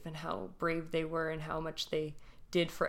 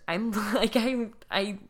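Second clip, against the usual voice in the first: holding back tears; 2 semitones higher, 4 dB louder, slower than usual. Real, not acted. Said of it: "trying not to cry".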